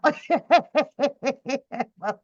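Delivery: real amused cackle; long run of rapid chuckles; laughing. Real, not acted. Streamer amused by her own rant, laughing.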